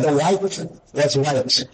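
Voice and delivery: slow emphasis. Real, not acted. Describing the prophet's eyes.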